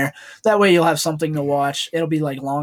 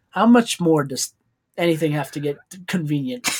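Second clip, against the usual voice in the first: imitated Asian accent. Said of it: "his Asian accent he puts on".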